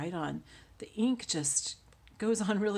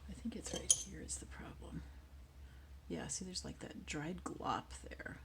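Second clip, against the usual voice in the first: whispering; 10 dB quieter than usual. Real, not acted. Muttering while cleaning glue.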